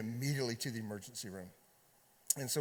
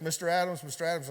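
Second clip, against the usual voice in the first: nurse calling a patient's name, louder and higher; 3 semitones higher, 4 dB louder, faster than usual. Retold or imitated. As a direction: call the name across the waiting room. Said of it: "and she yells".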